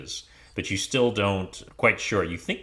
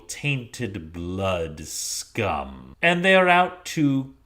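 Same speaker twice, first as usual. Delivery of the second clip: drow leader; 2 semitones higher than usual. Acted. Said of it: "the leader turns to Zuana".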